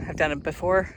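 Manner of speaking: slightly winded from the climb; out of breath. Real, not acted. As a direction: talk while short of breath. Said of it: "I might be out of breath".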